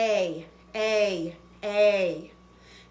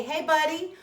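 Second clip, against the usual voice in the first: lightly higher friendly letter voice; a hint of a chummy cartoon letter; voicing the letter E; 4 semitones higher than usual. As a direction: speak as the E nudging its buddy. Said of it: "that E at the end tells that A".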